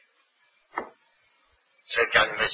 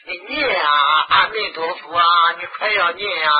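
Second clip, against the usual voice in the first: mock nagging; 4 semitones higher, 4 dB louder than usual. Teacher mocking pious grannies nagging the dying to chant.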